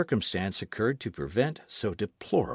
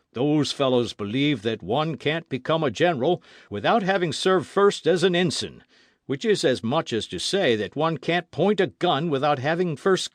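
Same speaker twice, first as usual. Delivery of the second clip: a retired gunner grumbling, raised and firm; louder, scornful old soldier; indignant old colonel; 4 dB louder than usual. Acted. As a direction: argue it like a veteran who scorns Old World ways. Colonel's heated argument.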